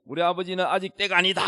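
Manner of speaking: re-enacted insistent cry in prayer; shouted prayer. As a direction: raise the voice as if protesting for father. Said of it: "고함을 지르면서".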